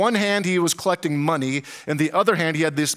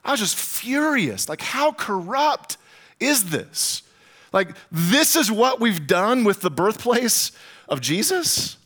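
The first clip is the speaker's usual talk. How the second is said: high-pitched, incredulous outrage; retold indignation; 4 semitones higher than usual. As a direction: relive your outrage without raising volume. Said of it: "the pastor in me was furious".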